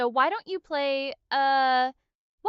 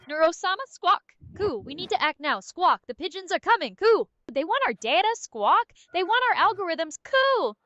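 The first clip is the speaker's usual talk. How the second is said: frantic squawking; 3 semitones higher, 4 dB louder than usual. Pretend. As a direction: squawk at her like a panicked pigeon. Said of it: "Start squawking at her frantically".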